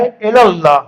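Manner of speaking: الی اللہ as "ela-llah", single L; careful "ela-llah"; correct pronunciation. Shown as a demonstration. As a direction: model "ela" in الی اللہ, not "illa". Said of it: "نیت کے اندر ہے".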